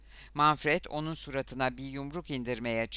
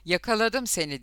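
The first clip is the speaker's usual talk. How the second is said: raised, mildly fierce cry; hissed taunt; 6 semitones higher, 4 dB louder than usual. A narrator's reading. Boy catching his rival in a fight, mildly hissed taunt. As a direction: read it as a taunt, more voiced than hissed. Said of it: "diye tısladı şiş dudakları arasından".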